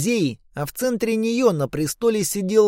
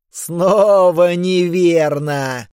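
giant voice; 4 dB louder, much slower than usual. Acted. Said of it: "сказал Кац".

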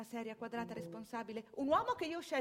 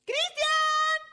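calling out loud; 12 dB louder, much slower than usual. Acted. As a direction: shout his name high and loud across the distance. Calling out to absent husband.

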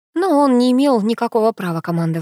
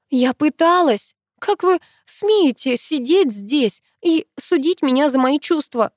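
hurt anger; 4 semitones higher, slower than usual. Acted. Penny confronts the professor.

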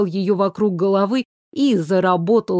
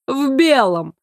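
meaningful emphasis; 5 semitones higher, slower than usual. Acted. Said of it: "добавляя многозначительно".

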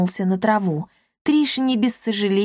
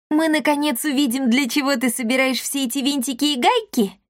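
intrigued; 6 semitones higher than usual. Acted. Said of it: "заинтригованно спросила Дарина".

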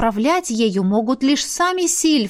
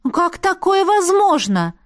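high, louder stunned question; 11 semitones higher, 3 dB louder than usual. Acted. Heroine asks the rector, stunned and high. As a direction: ask it in shock, higher. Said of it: "ошарашенно уточнила я".

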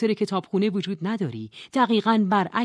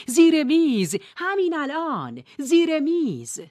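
higher, loud urgent command; urgent shout; 10 semitones higher, 6 dB louder, slower than usual. A narrator's reading. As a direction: order her under the table now. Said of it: "خانم علم داد زد".

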